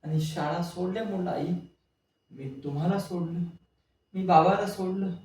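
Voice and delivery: pouring out guilt to mother in tears; anguished crying out. Acted. Reunited son crying out confessions.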